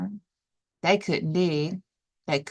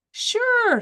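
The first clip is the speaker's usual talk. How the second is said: duck voice. Acted. Duck replies, high voice.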